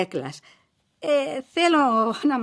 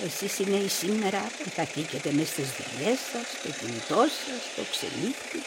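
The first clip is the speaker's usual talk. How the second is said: weary sighing lament; 4 semitones lower, 10 dB quieter than usual. Acted. Mother sighs over modern life.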